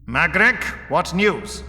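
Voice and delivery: high, eager demand for news; eager anticipation. A narrator's reading. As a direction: ask eagerly, voice lifted. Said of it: "He turned eagerly".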